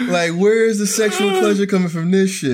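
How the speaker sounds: laughing indignation. Acted. Acted captive demanding release.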